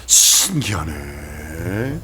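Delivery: low, hushed, hugely drawn-out marveling; mock wonder, slow and soft; acted amazement. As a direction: stretch it out slowly as an awestruck onlooker, rising at the end. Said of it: "세상 사람들은 이렇게 얘기하죠".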